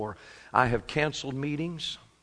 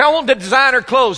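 mock covetous listener; 10 semitones higher, 12 dB louder than usual. Mocking a materialistic listener.

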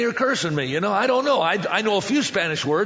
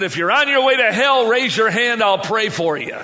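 loud, high burst easing off by the end; frustrated holler; 4 semitones higher, 5 dB louder than usual. Retold or imitated. Fed-up preacher giving the altar call, frustrated holler. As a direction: fire it out in exasperation. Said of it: "exactly what I said and how I said it".

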